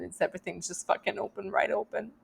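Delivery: real welling-up, voice rising and softening at the end; close to tears. Real, not acted. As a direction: talk on while holding back tears. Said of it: "Now I'm gonna start crying".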